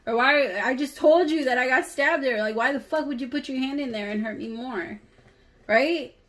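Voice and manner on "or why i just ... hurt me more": higher-pitched, indignant mock protest; worked-up, incredulous complaint, pitched up; acted outrage. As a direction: act out being mad at a partner who hurt you. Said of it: "you would be mad as fuck".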